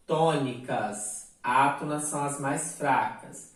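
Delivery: ordinary talk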